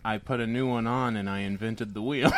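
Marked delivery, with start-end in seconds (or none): 1.1-2.3 laughing. Real, not acted. Joke with laughing shout.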